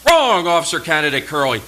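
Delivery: officer rebuking the cadet during inspection, loud. Retold or imitated. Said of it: "thick southern drawl".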